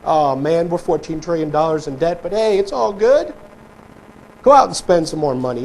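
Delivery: mock soothing politician, lightly voiced; mocking politician coddling voters; sweet-talking politician. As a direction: coax like a smooth politician, half-mocking. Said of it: "they'll just stroke you".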